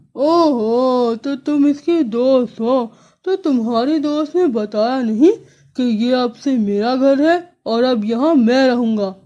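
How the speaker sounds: lightly voiced crow sneering; mocking crow. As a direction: taunt the friend, smug.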